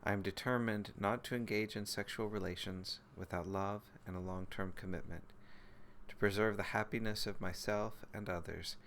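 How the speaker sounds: measured, even recitation of a vow; solemn precept recitation. Real, not acted. Teacher reciting a precept for the practice group, solemn recitation. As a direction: recite it phrase by phrase, with composed pauses.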